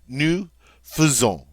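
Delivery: "Nous faisons" said noo fuh-ZOHN, slowly; French nous faisons. Shown as a demonstration. Teacher modeling the right nous faisons, slow. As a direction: say "faisons" with a light fuh, not fay. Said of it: "Notice we don't say nous faisons".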